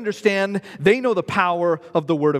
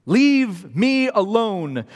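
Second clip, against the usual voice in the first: a hostile demon snapping leave us alone; 3 semitones higher than usual. Acted. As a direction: push him away, hostile and raised. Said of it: "There's great hostility in that question".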